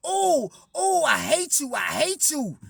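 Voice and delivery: high, loud squeal dropping back down; mocking the lady. Imitating the lady at sign-in.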